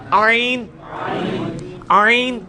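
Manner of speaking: "آئین" from the mid-throat, rising in force; letter ain. Shown as a demonstration. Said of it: "ادھر ہی سے یہ آئین بھی نکلنا ہے،".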